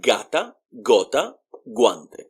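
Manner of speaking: gata, gota, guante with g as in go; "GAH-ta, GOH-ta, GWAN-teh" for gata, gota, guante; hard G sound. Shown as a demonstration. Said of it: "it will sound like g".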